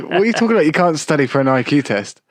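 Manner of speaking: retelling Keenan scolding Kel, mock Keenan disbelief; imitating Keenan. Acted Keenan in retold scene.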